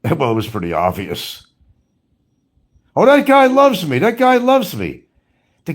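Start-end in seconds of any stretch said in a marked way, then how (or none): 3.0-5.0 mocking impression of boast. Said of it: "mocking his boast".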